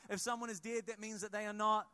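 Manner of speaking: loud call-and-response repeat. Shown as a demonstration. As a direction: punch it out so the congregation answers. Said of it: "We can try that one more time".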